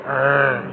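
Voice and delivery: low mock growl; imitated dog growl. Owner imitating the niece's dog, a low growl. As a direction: growl briefly like a grumpy pet dog. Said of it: "she growls at people".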